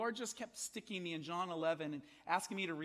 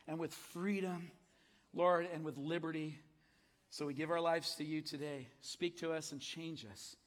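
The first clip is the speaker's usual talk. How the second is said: prayer; 2 semitones higher, 3 dB louder than usual. Acted. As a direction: pray over the people. Leads congregation in prayer.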